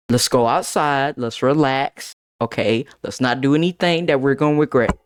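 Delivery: low, measured talking-down; calming teacher. Retold or imitated. Art teacher talking Jay down, calmly. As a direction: gently imitate a teacher defusing a fight.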